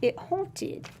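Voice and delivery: "haunted" pitched high, drawn out as "haw-tid"; playful high, eerie "haw-tid" for "haunted"; odd put-on haunted. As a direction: lift "haunted" high and stretch its first vowel. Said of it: "Would they have talked like that".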